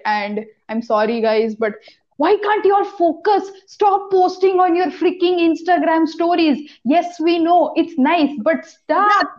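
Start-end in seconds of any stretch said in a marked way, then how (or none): 2.2-9.4 higher-pitched, exasperated plea to stop; exasperated scolding. Real, not acted. Podcaster telling juniors off, exasperated.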